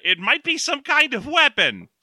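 very high, excitable trooper put-on; stormtrooper voice. Stormtrooper warning the officer of a possible weapon, in high trooper voice. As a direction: raise it sharply like an alarmed trooper. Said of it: "do we still do Stormtrooper voice".

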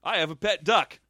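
put-on sitcom goofball voice; Joey. Friend mocks a sitcom character's random interjections, goofy impression. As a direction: toss it out like a dim sitcom character's random line. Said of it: "he just comes in and he's like".

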